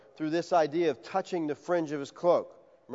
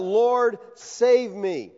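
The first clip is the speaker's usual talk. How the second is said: louder plea to the Lord; crying out; 5 semitones higher, 4 dB louder, much slower than usual. Acted. Peter sinking, calling out to Jesus, louder plea. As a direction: call for rescue with urgency. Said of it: "he cried out".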